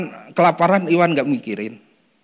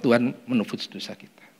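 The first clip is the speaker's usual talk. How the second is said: whisper; 4 semitones lower, 6 dB quieter than usual. Real, not acted. Preacher softens to a whisper.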